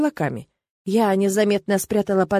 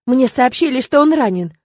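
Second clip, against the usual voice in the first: upset outburst; 4 semitones higher, 6 dB louder than usual. A narrator's reading. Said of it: "Голос Ирмы задрожал".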